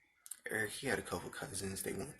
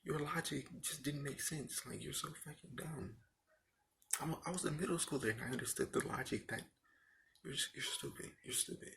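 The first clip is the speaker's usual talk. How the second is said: higher, indignant rant at the teacher; exasperated rant; 6 semitones higher than usual. Real, not acted. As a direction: vent at his stupid logic, voice pitched up. Ranting at old teacher.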